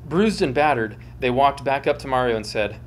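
storyteller reading with dramatic flair; dramatic story reading. A narrator's reading.

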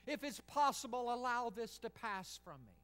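put-on a child's cry to daddy, high and loud at first; anguished plea. Jesus in the garden begging his father, anguished plea. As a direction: beg your father to save you. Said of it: "praying to his father and saying".

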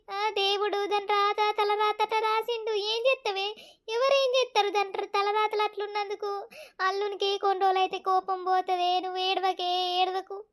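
hushed, resigned comforting; soft consoling. Acted. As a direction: soothe them quietly. Elder consoles a crying mother.

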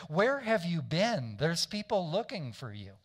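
mildly indignant, demanding an explanation; disrespectful. Retold or imitated. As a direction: imitate exasperated disciples scolding their rabbi. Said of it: "they're becoming disrespectful".

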